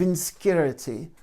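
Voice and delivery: "insecurity" squeezed to "in-skeh-rity"; imitated accented pronunciation. Retelling the teacher's punchline setup, "insecurity" in his accented "inskerity". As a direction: say "insecurity" short a syllable, like "inskerity". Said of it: "the way he says it with his accent".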